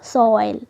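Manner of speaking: सॉइल stretched on one gliding oy vowel; joined glide. Shown as a demonstration. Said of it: "ये दोनों एक ही जुड़ा हुआ है". (सॉइल में ऑय को जोड़कर खींचें)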